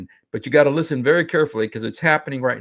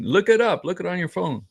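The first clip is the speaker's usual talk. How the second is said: higher-pitched, insistent retold instruction; urging wife; 6 semitones higher than usual. Imitating wife telling the kids to check, insistent and higher. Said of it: "She's saying".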